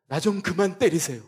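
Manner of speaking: loud, pleading protest at God; arguing with God. Retold or imitated. Pastor protesting to God about his suffering, loud complaint. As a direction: push back hard, as if demanding an answer. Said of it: "막 따지는 거예요".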